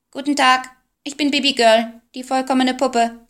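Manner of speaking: high, loud squawking doll; squawky doll voice. A narrator's reading. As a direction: quack it like a talking doll. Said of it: "die etwas quäkend klang".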